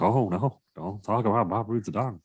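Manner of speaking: Jeff Goldblum impression. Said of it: "is that your Goldblum impression".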